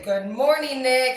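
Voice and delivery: bright sing-song good morning; chirpy hello to a grumpy crewmate; cheery greeting. Retold or imitated. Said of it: "I'd say".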